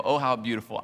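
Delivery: airy, admiring sigh of a reader; a gushing little oh, how beautiful; mock admiration. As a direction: fake admiration. Contrast of readings.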